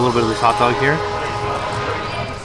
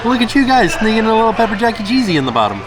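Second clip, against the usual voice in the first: playful laughing; 10 semitones higher, 4 dB louder than usual. Real, not acted. Teasing the food playfully.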